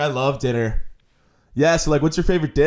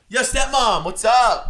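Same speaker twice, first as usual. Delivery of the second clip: much higher, cocky greeting; douchey stepson; 7 semitones higher, slower than usual. Acted. Stepson greeting his stepmom, cocky and much higher. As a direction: call out like a smug bro.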